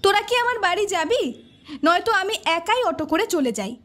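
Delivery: irritated, pitch lifted at the start; mildly exasperated ultimatum; annoyed. Acted. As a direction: put out with friends, push them to get moving. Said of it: "Sohini বিরক্ত হয়ে বলল".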